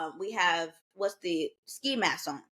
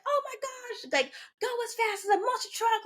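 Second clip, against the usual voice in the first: excited scream; 13 semitones higher than usual. Retold or imitated. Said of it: "I'm screaming in his ear".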